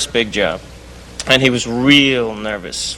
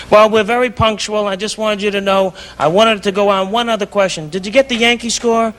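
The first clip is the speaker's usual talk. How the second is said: higher put-on Jewish London accent; 7 semitones higher than usual. Prank caller fooling the composer, Jewish London accent. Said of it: "Now I'm talking in a Jewish accent from London".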